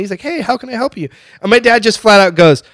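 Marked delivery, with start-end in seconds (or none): 0.2-1.1 high, soft waiter's greeting; lightly voiced friendly welcome; really friendly. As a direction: imitate an eager-to-help server. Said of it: "really friendly".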